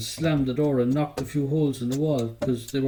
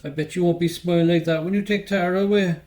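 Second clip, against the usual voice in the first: angry; 4 semitones higher, 3 dB louder than usual. Acted. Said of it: "I was mad at her and goes".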